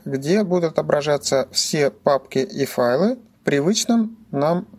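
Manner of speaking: usual speaking voice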